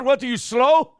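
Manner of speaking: high, loud scornful yell; berating boss. Retold or imitated. Mimicking the owner at a woman who messed up, angry yell. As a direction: imitate a boss shouting an insult. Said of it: "if a girl fucked up, he'd be like".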